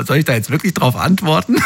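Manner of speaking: laughing through a mocked question; half-laughing at the thought of answering. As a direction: giggle through the words, amused by the idea. Amused quote of US small talk.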